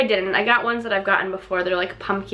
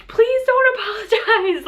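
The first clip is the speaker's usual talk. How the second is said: higher, laughing through tears; teary laughing plea; 11 semitones higher, 3 dB louder than usual. Retold or imitated. Crying customer reassuring the server, high and laughing. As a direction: beg her not to apologize, half laughing. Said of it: "And I'm like".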